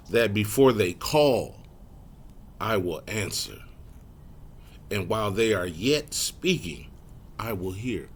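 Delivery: slow, spaced-out scripture phrases. Shown as a demonstration. Preacher rereading the verse for the congregation, slow and deliberate. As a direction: read it slowly, pausing after each phrase. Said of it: "Let me read it slower".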